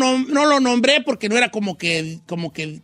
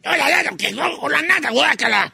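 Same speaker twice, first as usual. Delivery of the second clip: el Chino; 6 semitones higher than usual. Acted. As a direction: exaggerate your co-host's outburst about the nata. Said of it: "yo imito al chino".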